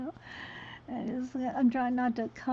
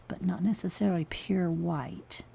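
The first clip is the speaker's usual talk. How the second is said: whispering; 3 semitones lower, 5 dB quieter than usual. Real, not acted. Thinking aloud while painting.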